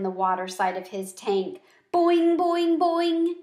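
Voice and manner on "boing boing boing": high, loud boing; an excited frog's call; shouted boing. A narrator's reading. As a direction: shout it out like a happy frog. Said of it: "he shouted".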